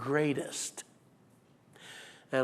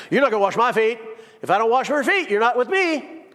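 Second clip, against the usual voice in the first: heated exchange; 5 semitones higher, 5 dB louder than usual. Acted. Peter and Jesus exchange voiced.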